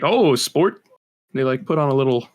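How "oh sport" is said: lightly voiced white suburban dad; a hint of hammed-up dad greeting. Shown as a demonstration. Friend showing the white dad accent, lightly hammed-up dad. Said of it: "like a dad, kind of".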